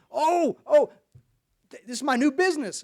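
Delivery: high, eager bragging voice; proud excited Terry. Retold or imitated. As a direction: show off the new business. Terry proudly shows new business.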